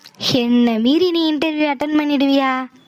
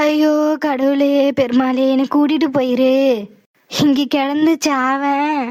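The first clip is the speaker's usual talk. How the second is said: fake wailing. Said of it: "அழாதீங்க".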